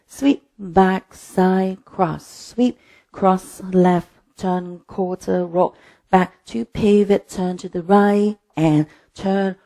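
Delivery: measured, rhythmic cues spaced to the beat; dance teacher counting the moves through; dance step calling. Real, not acted. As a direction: call each step in time for a class. Calls dance steps in time.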